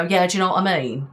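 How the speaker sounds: quick, offhand everyday chat; lazy casual talk. Shown as a demonstration. Streamer showing how they talk off camera, lazy and quick. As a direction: toss it off fast and lazily. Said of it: "It's that attitude where in my video".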